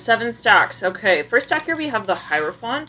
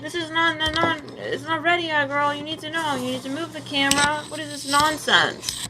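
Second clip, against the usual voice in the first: voicing the guides; 8 semitones higher than usual.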